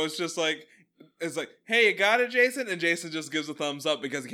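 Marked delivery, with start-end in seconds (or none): 1.7-2.7 loud, high-pitched coach's shout; mock coach call. Imagined coach calling to Jason, mock shout. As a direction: holler it like a coach checking on a player.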